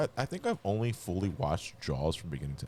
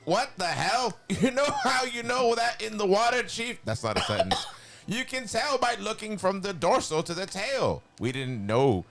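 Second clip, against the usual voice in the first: a hint of cartoon Skeletor telling a grim war story; 6 semitones higher than usual. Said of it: "I can probably read this in my Skeletor voice".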